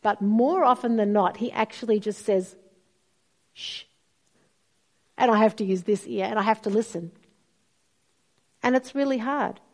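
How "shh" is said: hushing shh. Pretend. God hushing her to listen.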